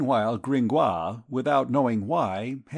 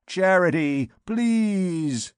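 higher, louder drawled plea; nasal beggar's drawl; 6 semitones higher, 3 dB louder, much slower than usual. A narrator's reading. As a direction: whine it like a street beggar asking alms. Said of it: "drawling nasally in the midst of the audience".

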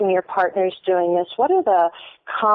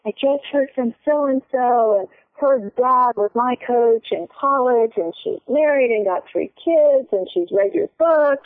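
mildly imitating husband's excitement, higher; bubbly retelling of his news, pitched up; excited husband; 4 semitones higher than usual. Wife imitating her husband sharing old friends' news, lightly excited and higher. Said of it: "he gets all excited".

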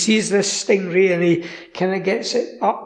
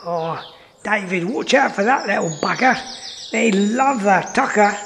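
lightly put-on Australian accent, warning Dave; a hint of an Aussie presenter accent. Presenter warning David about the creature, in a light Australian accent. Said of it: "an Australian or a South African".

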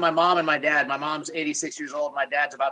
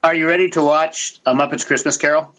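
loud, game-show build-up; hype announcement; 9 dB louder than usual. Acted. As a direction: pump the room up for the next topic. Host announces next topic.

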